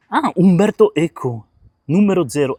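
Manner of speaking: loud, high Italian-accented reading. Real, not acted. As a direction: read the title as if in Italian. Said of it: "je lis ça avec l'accent italien". (accent italien, exclamé)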